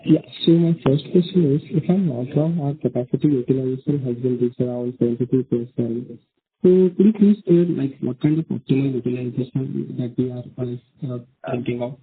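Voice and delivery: muffled, unclear phone line; speaking too close to the phone. Real, not acted. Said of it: "your voice is not coming out clearly".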